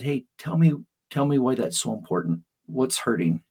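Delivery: gentle dad. Retold or imitated. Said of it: "And Dad said".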